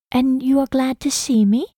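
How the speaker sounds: put-on high young lady's voice, eager question; hopeful young woman. A narrator's reading. Hannah asks if he's glad she came, hopeful. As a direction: ask him shyly, wanting a yes.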